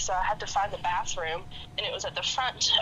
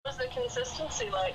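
plastic voice; 4 dB quieter than usual. Acted. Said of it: "She sounds like a robot right now".

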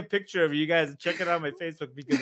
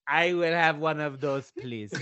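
mock deliberate request; slower than usual. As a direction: imitate her savoring each word. Retold mother ordering, slow and deliberate.

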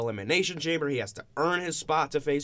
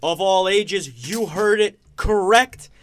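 grand entrance announcement; 5 semitones higher, 4 dB louder than usual. Acted. Host opens show like ring announcer.

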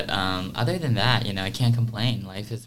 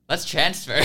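laughing self-quote; 10 dB louder than usual. Retold or imitated. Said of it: "the first week I was like".

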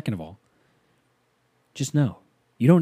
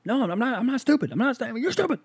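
put-on high, childish whining protest; whiny kid; 13 semitones higher than usual. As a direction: talk back like a bratty little boy. Kid giving in.

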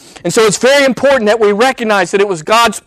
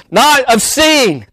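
slow, raised, punched contrast; emphatic shout; 5 semitones higher, slower than usual. Real, not acted. Preacher contrasting hearing with seeing.

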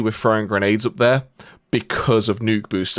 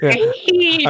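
sarcastic yeah. Retold or imitated.

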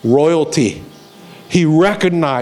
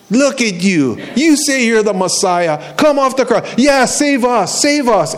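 jeering; 5 semitones higher than usual. Retold or imitated. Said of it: "they start jeering at him".

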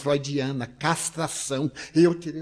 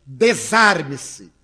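slow, drawn-out, louder order; stern command; 6 dB louder, much slower than usual. Retold or imitated. Psychoanalyst ordering the nervous visitor, slow stern command. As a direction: spell it out like a clinical verdict.

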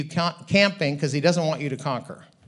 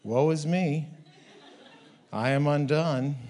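dramatic sigh. Retold or imitated. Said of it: "then something happens".

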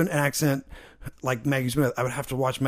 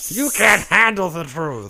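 loud courtroom outburst, badly imitated; hammed-up movie courtroom shout; Jack Nicholson; 4 semitones higher, 6 dB louder than usual. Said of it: "That's my Jack Nicholson impression".

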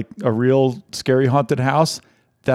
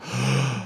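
big inhale before reading; 6 dB quieter than usual. Shown as a demonstration. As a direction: gulp a big breath first. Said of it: "Can you do it in one breath?".

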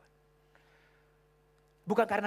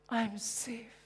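hushed awe; whispered awe; 6 semitones higher than usual. Retold or imitated. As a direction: breathe it out in wonder. Repeated softly.

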